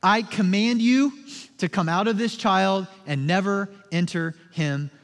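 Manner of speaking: firm, measured rebuke; commanding authority. Retold or imitated. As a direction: order it out with authority. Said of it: "speaks with such authority".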